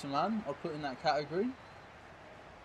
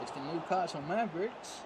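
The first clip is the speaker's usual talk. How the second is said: light American accent on "Newcastle Mavericks"; 3 semitones higher than usual. Shown as a demonstration. Naming a Newcastle team like a basketball franchise, light American accent. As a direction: say "Mavericks" like an American sports announcer. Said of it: "I don't know why I'm doing an American accent".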